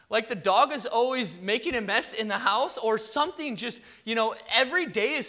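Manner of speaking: pushy ad announcer voice; infomercial voice. Pretend. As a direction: pitch each problem like a TV ad. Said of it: "it sounds like an infomercial".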